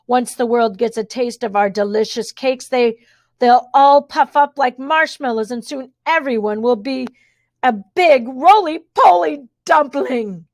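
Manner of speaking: gloating villain twins, slowing to savour the last words; villain rant. Acted. Twins gloating about their fattening cakes, lightly voiced rant. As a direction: rant with relish about the plan. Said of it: "continued to rant".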